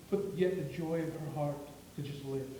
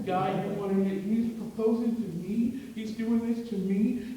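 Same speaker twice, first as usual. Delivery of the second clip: overcome with tears; 3 semitones higher, 6 dB louder than usual. Retold or imitated. Preacher acting Allie stunned by the proposal. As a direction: let it spill out like happy tears. Retelling Allie's tearful reaction.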